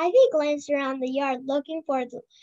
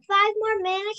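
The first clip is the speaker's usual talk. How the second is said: yelled; 6 semitones higher than usual. A narrator's reading. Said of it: "she yelled".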